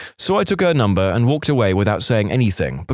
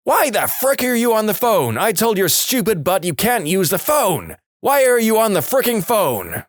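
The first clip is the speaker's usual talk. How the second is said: higher-pitched mock-furious yelling; retold angry yell; 10 semitones higher than usual. Mother catching her son on the phone, mock yelling. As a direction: play the furious mum bursting in. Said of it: "Loud as any person can be".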